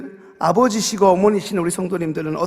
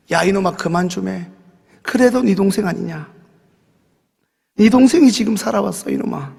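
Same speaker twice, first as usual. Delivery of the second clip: louder pleading rebuke, rising to a near shout; father's rebuke; 4 dB louder than usual. Retold or imitated. Father scolds elder son over returned brother, pleading rebuke.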